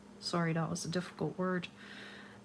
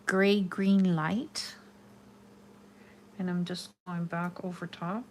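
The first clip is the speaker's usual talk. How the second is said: muffled behind a hand; talking through a covered mouth; hand over mouth; 4 dB louder than usual. Real, not acted. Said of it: "Yes, I have my hand over my mouth".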